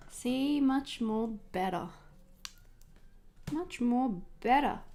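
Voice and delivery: slow, drawn-out film quote; movie quote. Acted. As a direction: savour each word like a favourite film line. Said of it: "Pirates of the Caribbean reference".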